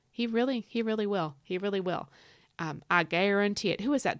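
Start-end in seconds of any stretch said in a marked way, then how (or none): 2.9-3.8 lightly put-on Cajun accent; horrible Cajun accent. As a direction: do a bad Cajun cook's catchphrase. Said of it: "that was a horrible Cajun accent".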